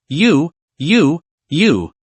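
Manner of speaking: halting, repeated stammer; stuck on the first word. A narrator's reading. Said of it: "stammered Sun Jiahao".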